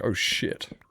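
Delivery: breathy hushed oh shit; whispered dread. Retold or imitated. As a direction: whisper it like a scared fan. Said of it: "And it's like".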